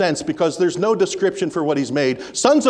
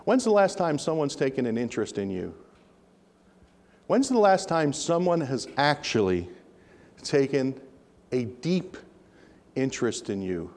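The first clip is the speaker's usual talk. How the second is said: softer, slowing, sinking to near hush; a quiet pastoral plea; intimate; 6 semitones lower, 7 dB quieter than usual. Real, not acted. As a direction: draw them close with the question. Preacher drops to intimate question.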